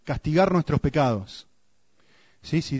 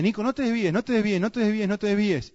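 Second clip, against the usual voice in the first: pleading God; 8 semitones higher than usual. Retold or imitated. God pleading, voiced in story.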